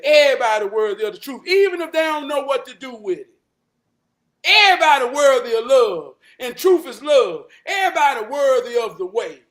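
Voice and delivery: loud, fervent repetition; preaching emphasis. Real, not acted. Telling listeners everybody is worthy, preaching loudly.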